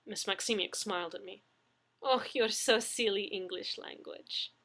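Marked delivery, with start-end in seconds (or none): 2.0-4.5 affectionate Russian. Acted. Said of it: "she said affectionately".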